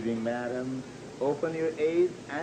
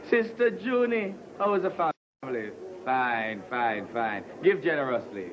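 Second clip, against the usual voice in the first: sing-song church greeting. Acted.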